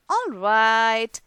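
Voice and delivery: loud cheering shout; excited yell. A narrator's reading. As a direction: cheer it out like a thrilled kid. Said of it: "yelled Arthur".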